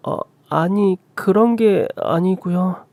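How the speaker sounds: high, slow, hesitant stammer; flustered denial. Acted. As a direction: back down timidly, halting between words. Flustered daughter-in-law denies it.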